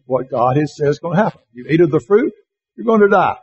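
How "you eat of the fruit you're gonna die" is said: God's warning, higher and louder; quoting God's warning with rising force; stern warning. Acted. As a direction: lay it down like a divine decree. God's warning, then Satan's contradiction.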